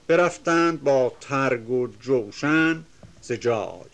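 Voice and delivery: measured, chanting reading of epic verse; reciting classical Persian verse; poem recitation. Acted. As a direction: declaim the couplets with rhythm.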